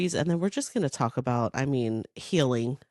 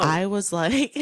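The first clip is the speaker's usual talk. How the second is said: laughing; 4 semitones higher, slower than usual. Real, not acted. Laughing retelling reaction.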